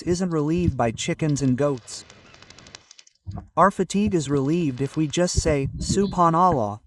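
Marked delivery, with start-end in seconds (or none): 5.8-6.8 strong voice. Shown as a demonstration. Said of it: "with such a strong voice".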